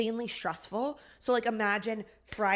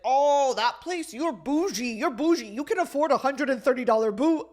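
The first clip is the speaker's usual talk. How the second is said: put-on old man teasing; 5 semitones higher, 7 dB louder than usual. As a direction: ham up the creepy old guy taunting her. Old man taunting about boot.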